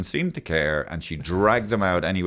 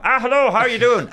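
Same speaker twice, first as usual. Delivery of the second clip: high, loud cheery hello; mock friendly greeting to a stranger; 13 semitones higher, 6 dB louder than usual. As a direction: wave at a neighbour with a loud bright hello. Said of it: "waving at them".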